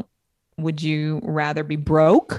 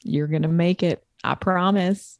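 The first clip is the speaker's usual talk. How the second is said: put-on Southern accent. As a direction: reassure them with a light Southern accent. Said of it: "Why am I using that voice?".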